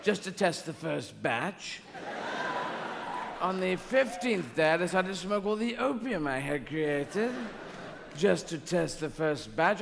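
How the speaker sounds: lightly voiced James Mason, unhurried and pompous; James Mason as God. God telling Jesus about creation, in a light James Mason voice. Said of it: "do the James Mason".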